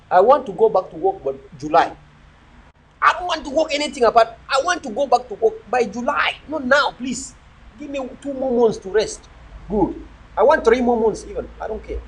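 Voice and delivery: lazy villager voice, pidgin-tinged; villager talk demo. Shown as a demonstration. Viewer-facing vlogger showing how a villager talks, mild role voice. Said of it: "So that's the villager talking".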